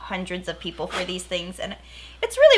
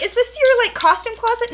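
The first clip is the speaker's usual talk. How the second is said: high, louder sister impression; 14 semitones higher, 5 dB louder than usual. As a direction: ask it like a teasing sister. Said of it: "My sister's like".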